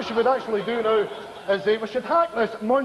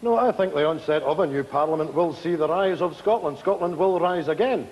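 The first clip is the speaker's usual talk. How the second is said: pompous patriot; 7 semitones lower than usual. Acted. Scottish nationalist character's pompous claim.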